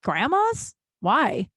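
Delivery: mock-baffled parents with questioning lifts and pauses; dismissively puzzled. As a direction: answer as if the question is completely irrelevant. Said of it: "like it was a completely irrelevant question".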